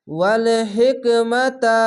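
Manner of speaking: ওয়াল হিকমাতা with a breathy ha pushing out air; airy ha in hikma. Shown as a demonstration. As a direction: push air through the ha of হিকমাতা. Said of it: "এরকমভাবে পড়তে হবে".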